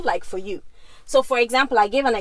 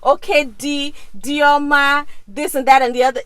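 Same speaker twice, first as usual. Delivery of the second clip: louder, higher cheering call of his name; hailing her husband; 3 semitones higher, 5 dB louder than usual. Retold or imitated. Wife cheering her husband by name, excited loud call. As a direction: hype him up by name. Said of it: "You know how I'm always hailing him?".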